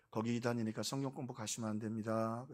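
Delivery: 낮고 작은 소리로 타이르는 흉내; 남모르게 따로 불러 권고하듯; 조용한 권고. Retold or imitated. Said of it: "조용히 당회에서 얘기를 하죠". (조용히, 나직하게 타이르기)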